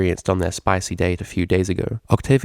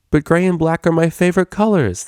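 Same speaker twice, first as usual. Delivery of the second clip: defensively; 9 semitones higher, 3 dB louder than usual. A narrator's reading. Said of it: "the D J replied defensively".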